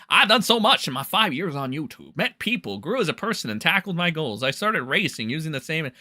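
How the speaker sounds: lightly put-on hillbilly accent; mocking hillbilly accent. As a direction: read his post in a mocking hillbilly accent. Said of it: "I gotta give him the hillbilly accent".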